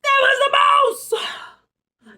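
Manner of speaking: drawn-out high exclaim of discovery; slow, loud, high gasp of a reveal; big storybook reveal, slowed right down; dramatic reveal. A narrator's reading. Dramatic reveal in read-aloud.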